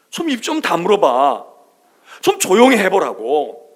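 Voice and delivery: 좀 조용히 해보라고 slow and loud, 좀 stretched; loud stern hush. Acted. Hushing contrasted with the whisper. (크고 느리게 "좀 조용히 해보라고", 좀을 길게)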